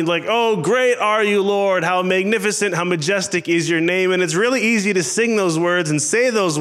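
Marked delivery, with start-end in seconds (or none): 0.3-4.1 higher-pitched, mildly happy prayer; cheery praise. Acted. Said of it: "something cheery, something happy".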